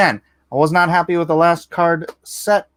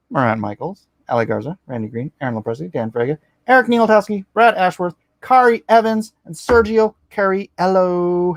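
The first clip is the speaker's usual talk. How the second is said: rapid-fire promo read; 3 semitones higher than usual. Acted. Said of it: "Why am I talking like that?".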